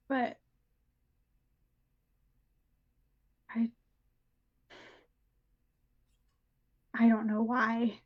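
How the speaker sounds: halting monotone with long pauses; dissociated character. Acted. Character guessing how Mary and creature connect, halting monotone. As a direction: think it through haltingly, barely inflected.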